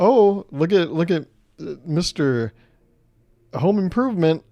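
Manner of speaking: loud, high, hammed-up mocking jab; mocking teaser. Shown as a demonstration. Showing the uncreative jab friends make, hammed-up and loud. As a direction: sneer it like a lazy joker. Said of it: "Like, uh, uh".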